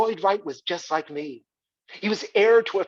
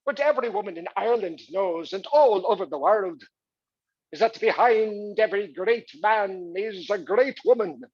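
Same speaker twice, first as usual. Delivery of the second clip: stage monologue; 3 semitones higher than usual. Acted. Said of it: "this incredible monologue where she said".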